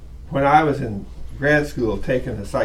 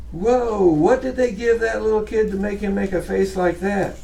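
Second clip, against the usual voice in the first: mock shock; 4 semitones higher than usual. Mock shock at child's face photo.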